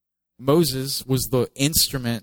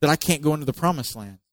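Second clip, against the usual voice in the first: blaming Moses; 3 semitones higher than usual. Retold or imitated. Moses blaming the people, frustrated and accusing. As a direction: throw the blame at them. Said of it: "where he blames them".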